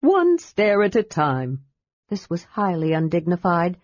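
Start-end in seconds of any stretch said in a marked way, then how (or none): 0.0-1.6 lightly raised kender voice, encouraging; a cheerful kender helping a friend up; Tas the kender. Acted. Narrator voices Tas character.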